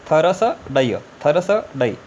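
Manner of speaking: थरस डय said without vowels; consonant-only reading. Shown as a demonstration. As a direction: read थरस डय as bare consonants. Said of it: "by mistake टी के बाद एच". (स्वर हटाकर पढ़ना)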